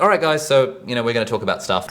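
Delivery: casual presenter. Acted. Teacher sitting in front of a class, casual presenter mode. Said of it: "fairly casual in my presentation style".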